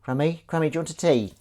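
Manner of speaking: lightly sing-song call to the dog; a hint of a pet-talk voice. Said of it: "speaking to you in that voice".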